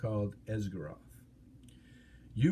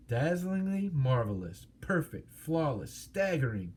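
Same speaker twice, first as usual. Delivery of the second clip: higher, slow flattering exclamations; mock exclaiming; 3 semitones higher than usual. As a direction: lay the flattery on the dragon.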